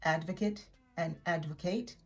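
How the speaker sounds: first advocate ends "kit", second advocate ends "kate"; contrasting pronunciations. Shown as a demonstration. Teacher contrasting noun and verb for learners, careful and clear. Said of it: "are not pronounced the same".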